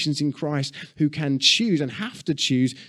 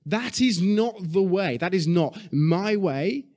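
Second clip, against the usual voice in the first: strong refusal; 6 semitones higher, slower than usual. Retold or imitated. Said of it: "come against it so strongly and say".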